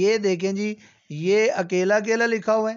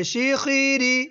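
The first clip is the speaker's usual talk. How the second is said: high, drawn-out model reading; raised voice; 6 semitones higher, much slower than usual. Shown as a demonstration. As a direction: stretch it out high for the pupil. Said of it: "ऊंचा".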